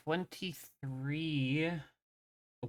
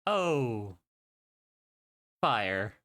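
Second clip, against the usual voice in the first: character voice; much slower than usual. Acted. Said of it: "Emran just looks out the window".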